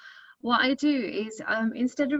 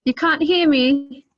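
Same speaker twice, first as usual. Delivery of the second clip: slow, loud surprised question; startled to be told they can't hear; 5 semitones higher, 10 dB louder, slower than usual. Real, not acted.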